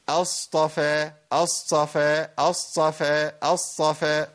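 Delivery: أصطفى with a breathy ṭāʾ blurred toward ṣād; mock mistake in أصطفى; imitated whispered ṭāʾ. Teacher imitating a common error. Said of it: "أقول إيه".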